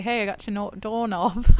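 badly faked Australian accent, laugh creeping in; tentative mock-Australian; attempted Australian accent. Shown as a demonstration. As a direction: have a clumsy go at Australian. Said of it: "I can't do an Australian accent".

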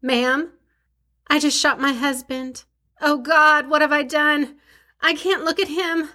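acting out a panicked call to 911; panicked emergency call. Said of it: "Do the reenactment, girl".

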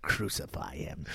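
slow hushed villain speech; soft menacing villain impression; Thulsa Doom whisper. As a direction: breathe it low and slow like a calm cult leader. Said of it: "quoting villain line".

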